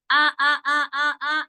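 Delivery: आ with a sharp glottal stop; hamza drill. Shown as a demonstration. Teacher demonstrating the hamza sound, crisp and repeated. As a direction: clip each आ at the throat. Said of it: "ऐसे कहेंगी आप".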